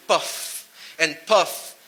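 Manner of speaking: slow, drawn-out puff and puff, like dragging on a cigarette; a languid imitation of a cool smoker; mock smoker puffing. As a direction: act out a lazy smoke.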